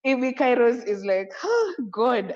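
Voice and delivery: real tears rising, voice lifting and catching on "oh God"; choked up. Real, not acted. Host thanking the executive board, voice catching with real emotion. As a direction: overcome with feeling, nearly crying. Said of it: "I'm getting a little bit emotional".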